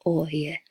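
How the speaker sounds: oi gliding from uh to I; oi diphthong. Shown as a demonstration. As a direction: slide oi smoothly. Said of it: "starts with the uh... goes to a I".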